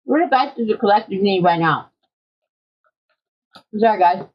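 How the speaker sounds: talking through a mouthful of candy; words muffled by food; mouth full. Real, not acted. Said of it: "I have food in my mouth".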